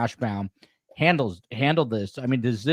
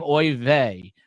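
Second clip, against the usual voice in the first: put-on Yiddish accent. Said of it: "Jewish judge ... he's saying".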